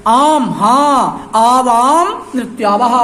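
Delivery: slow, drawn-out bear voice; bear speaking. Acted. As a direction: stretch it out slowly like a lumbering bear. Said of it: "भल्लूकः कहता है". (धीमी, खिंची हुई भालू की आवाज़)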